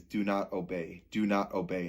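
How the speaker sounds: soft, low replayed thought; words looping under the voice; thought replayed inwardly. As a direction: repeat it quietly, as if to yourself. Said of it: "replaying in my mind".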